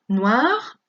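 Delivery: noir said as nwar. Shown as a demonstration. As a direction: open OI into wa. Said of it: "O I siempre se pronuncia wa". (noir pronunciado nwar)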